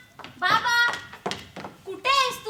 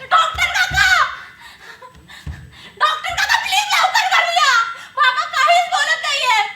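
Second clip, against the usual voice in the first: louder and higher, sobbing in panic; panicked sobbing; 6 semitones higher, 5 dB louder than usual. Acted. Daughter begging her unmoving father to wake, panicked sobbing. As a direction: cry out for help through tears.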